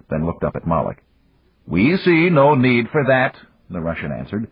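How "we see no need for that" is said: slow, louder, deliberate refusal; cold dismissal. A narrator's reading. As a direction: lay it down slowly and firmly. Russian coldly dismisses.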